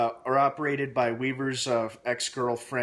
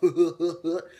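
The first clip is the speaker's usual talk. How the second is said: higher, louder dopey mock laugh; mocking chuckle; 5 semitones higher, 5 dB louder than usual. Reviewer mocking the dumb Southern boy, silly chuckle. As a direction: cap the impression with a silly laugh.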